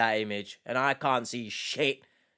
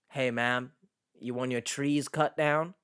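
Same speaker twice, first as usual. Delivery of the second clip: a mild put-on rural accent as a friendly lumberjack; folksy accent; 2 semitones lower than usual. Reactor voicing a lumberjack offering to cut trees, mild folksy accent. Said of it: "I put on a bit of a accent there".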